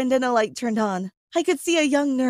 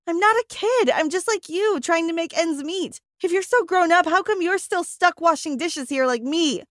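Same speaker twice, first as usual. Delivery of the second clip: high, pushed yell at a mocking coworker; screamed retort; 5 semitones higher than usual. Teen dishwasher yelling back at a mocking coworker, raised high voice. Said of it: "I screamed".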